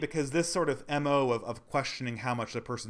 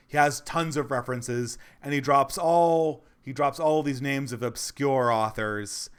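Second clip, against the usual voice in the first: louder, lightly mocking imitation of a pundit; mock his confident summary, a bit louder; nice deep voice; 5 dB louder than usual. Mimicking a critic's opening to viewers, louder mock pundit voice. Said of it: "in his, his nice deep voice".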